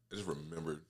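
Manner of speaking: drinking between words; while sipping a drink. Real, not acted. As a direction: talk around a sip of drink. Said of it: "you can hear me drinking".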